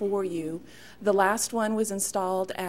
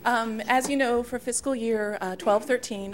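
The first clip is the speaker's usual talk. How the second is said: speaking up louder; projecting more; 3 semitones higher, 4 dB louder than usual. Real, not acted. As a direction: project to the back row. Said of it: "I'll try to project a little bit more".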